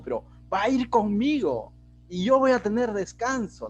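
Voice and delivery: acted self-satisfied "bingo" celebration; mock elation. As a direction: play Moses thrilled with his own good luck. Imagined Moses delighted at God's answer.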